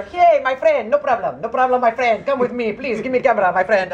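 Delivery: lightly voiced wheedling local man; imitated pushy local. Locals coaxing photographers to hand over the camera, imitated pushy friendliness. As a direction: act out an over-friendly "no problem" pitch.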